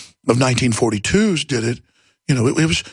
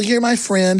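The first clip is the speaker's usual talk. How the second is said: higher, trusting gazelle voice; naive little gazelle; 6 semitones higher, slower than usual. Acted. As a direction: play the gullible gazelle making friends. Naive gazelle befriends lion.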